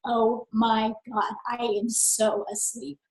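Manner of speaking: imitating a drowsy, worn-out mum, slow and soft; sleepy voice. Mother voicing her own exhausted energy, slow and sleepy. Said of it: "But the energy was".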